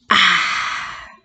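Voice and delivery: breathy gasp after a gulp. A narrator's reading. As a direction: gasp at the strong drink. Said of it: "gasped the smallest fox".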